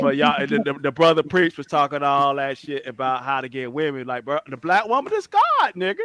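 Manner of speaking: lightly voiced streetwise preacher; Pharaoh impression. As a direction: preach it like Pharaoh, half-joking. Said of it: "I can do Pharaoh sometimes".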